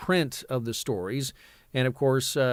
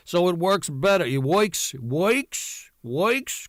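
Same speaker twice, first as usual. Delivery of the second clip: a light New York comic voice, climbing higher on each "works"; Buddy Hackett voice; 5 semitones higher, slower than usual. Shown as a demonstration. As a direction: toss the repeats upward, half-joking. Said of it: "kind of a Buddy Hackett".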